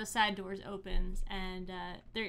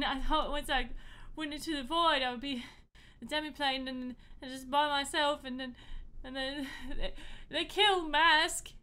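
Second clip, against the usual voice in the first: tearful joy; 5 semitones higher than usual. Acted. Haji tearfully reunites with Jacob.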